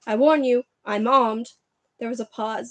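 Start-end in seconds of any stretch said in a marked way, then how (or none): 0.1-1.5 loud, emphatic threat; shouted warning. A narrator's reading. Uncle Vernon holding a rifle warns the intruder, shouting. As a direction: warn the intruder at full voice. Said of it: "he shouted".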